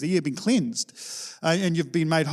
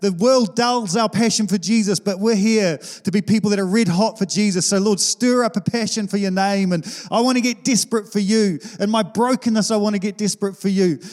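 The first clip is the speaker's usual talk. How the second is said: earnest prayer voice, mildly raised and pushing forward; preacher praying to be desperate for Jesus, earnest and fervent; 2 semitones higher than usual. Retold or imitated. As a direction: pray it like you're stirring up the church. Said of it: "shake the cage every now and then and say".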